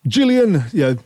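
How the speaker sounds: high, bossy mock voice of an angry caller. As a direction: play the cranky caller ranting at a man. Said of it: "I realized that tone and that voice".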